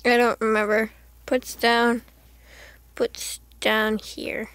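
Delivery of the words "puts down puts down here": slow whispered aside; whispered note to self. Real, not acted. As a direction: murmur it without voice.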